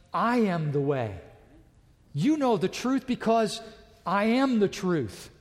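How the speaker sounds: preacher proclaiming Jesus' words boldly; emphatic proclamation. Retold or imitated. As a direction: declare it with full force. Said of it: "powerful blast".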